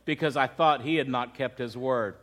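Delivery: low, hushed grief without real sobs; understated retold sobbing. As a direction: retell her tearful confession softly. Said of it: "Sobbing uncontrollably".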